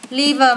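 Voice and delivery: "liver" ending in an added "đờ" sound; final d sounded. Shown as a demonstration. Teacher showing pupils the -ed ending, d sounded out. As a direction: finish "liver" on a voiced d. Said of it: "thêm i đê vào đọc là".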